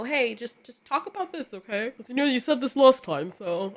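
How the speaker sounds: a hint of a soothing handler coaxing the client; marketing person voice. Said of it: "I don't know why I'm speaking like that".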